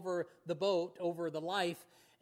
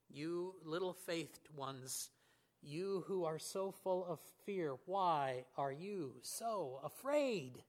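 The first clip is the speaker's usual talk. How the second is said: gentle rebuke; 2 semitones lower, slower than usual. Acted. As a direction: ask kindly why they fear. Jesus gently questioning frightened disciples.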